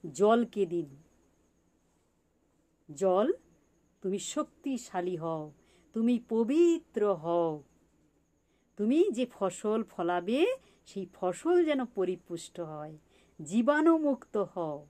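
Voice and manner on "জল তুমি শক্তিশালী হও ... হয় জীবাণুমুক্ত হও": slow, drawn-out affirmation; measured invocation with lengthened key words; blessing the water. Shown as a demonstration. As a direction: address the water as if lightly blessing it. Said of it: "আপনি মনে মনে এই কথাগুলো বলবেন".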